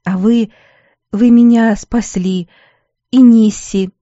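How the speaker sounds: put-on choked-up thanks from a girl; tearful gratitude. A narrator's reading.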